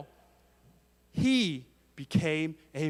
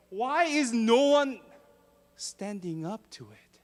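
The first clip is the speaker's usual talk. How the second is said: mild angry outburst, pitched higher; a touch of indignant anger, higher voice; angry boy; 6 semitones higher than usual. Retold or imitated. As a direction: retell the boy's outrage, lightly heated. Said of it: "He was very angry".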